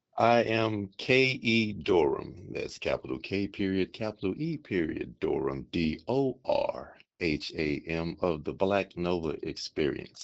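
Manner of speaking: silky, seductive, smooth lounge voice. Giving a full name and spelling it out when asked: sexy elevator voice. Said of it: "using his sexy elevator voice".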